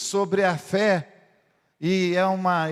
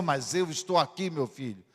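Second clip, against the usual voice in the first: soft fatherly reply; 5 semitones lower, 6 dB quieter than usual. Acted. Father answering quietly.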